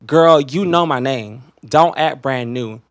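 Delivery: each word spelled out slowly; calling out a fake acquaintance, slow and sassy; slow emphatic sass. Real, not acted. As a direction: lay it on slow and pointed. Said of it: "Bitch, you are not an iPhone".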